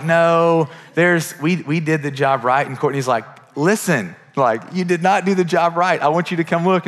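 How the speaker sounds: firm complaint. Retold or imitated. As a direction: push back on the plumber, a touch heated. Wife arguing with plumber.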